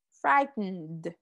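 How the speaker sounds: "Frightened" modelled with a held n before the d; reduced ending. Shown as a demonstration. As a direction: say "Frightened" with no vowel in the ending, just nd. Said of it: "Decimos frightened".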